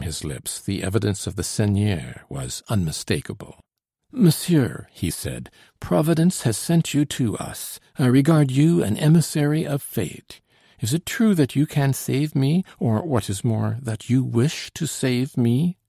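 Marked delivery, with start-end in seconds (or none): 4.1-4.9 high, loud, emphatic address; fervent nobleman. A narrator's reading. The seigneur greets his rescuer, fervently. 5.8-15.8 put-on higher-pitched, impassioned old seigneur; fervent nobleman. A narrator's reading. The seigneur to the man sent by Providence, fervently.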